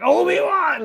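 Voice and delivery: high, loud wailing cry; anguished cry. Retold or imitated. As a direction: wail it out in defeat. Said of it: "And you go like".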